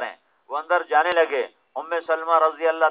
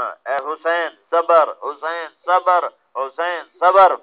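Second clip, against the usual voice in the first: drawn-out call; slower than usual. Retold or imitated. Ali calling to Husain for patience.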